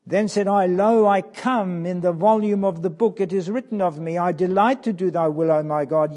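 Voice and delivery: measured, ringing reading of the psalm; scripture reading. Acted. Preacher reading the psalm to his flock, solemn and measured. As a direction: read it out as a solemn text.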